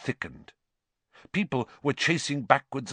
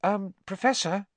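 tentative, high-pitched call; cautious; 12 semitones higher than usual. A narrator's reading. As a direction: try gingerly to rouse a sleeper. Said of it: "approached Professor Lupin cautiously".

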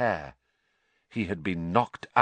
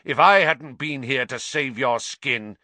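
snarling; 3 semitones higher, 5 dB louder than usual. Acted. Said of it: "snarled Snape".

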